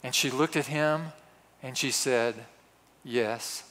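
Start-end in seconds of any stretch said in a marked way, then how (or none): 3.0-3.6 softer and lower, slow at the end; hushed reverent answer. Retold or imitated. Candy striper answering George in reverent awe, hushed and slow. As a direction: answer as if barely daring to speak.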